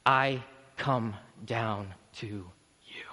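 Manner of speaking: very slow, near-whispered promise; hushed tenderness. Acted. Christ coming down to the weary, hushed tenderness. Christ stooping gently, contrasted with call.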